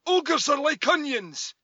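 loud, high Scottish ogre impression; slow, belted-out cartoon ogre with a Scottish accent; Shrek. Shown as a demonstration. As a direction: show off your big Scottish ogre voice. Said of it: "Do it again".

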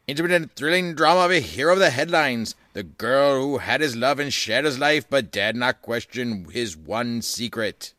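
put-on old-time radio announcer voice; 1930s radio announcer. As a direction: boom it out like vintage radio. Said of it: "that was my nineteen thirties radio announcer voice".

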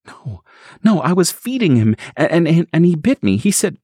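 high, broken frightened telling; stammering fear. Acted. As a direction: stumble over the words in fear. Stacy stammers out what happened.

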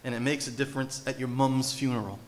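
lightly imitated British accent; a hint of a British preacher's accent. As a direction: quote it with a slight British lilt. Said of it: "he says in his British accent".

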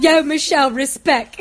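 a hint of Ali G's London street accent, laughing; light laughing Ali G London street accent; Ali G impression. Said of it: "the show with Sacha Baron Cohen at the Ali G show".

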